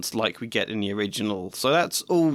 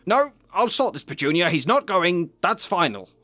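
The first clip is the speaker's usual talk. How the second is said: higher, firm and final; a stubborn uncle laying down the law; firm Vernon; 7 semitones higher, 3 dB louder than usual. Acted. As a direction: shut the argument down. Vernon overrides his wife.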